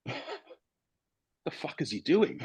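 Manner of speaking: slow, quiet and laughing through it; half-laughing, baffled teammates; laughing disbelief. Retold or imitated. Teammates baffled by calm manager.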